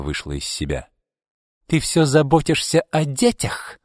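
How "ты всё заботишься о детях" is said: high-pitched, heated exclamation; exclaiming. A narrator's reading. Izolda taunts Arkady about his children, exclaiming. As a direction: cry it out with pitch raised. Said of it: "воскликнула она".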